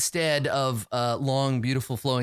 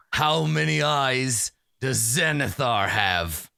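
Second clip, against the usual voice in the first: slow, deliberate bugbear challenge; bugbear asking password; slower than usual. Acted. Bugbear quizzes newcomers for the password, slow and deliberate. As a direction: pose it slowly, like a test. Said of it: "he says".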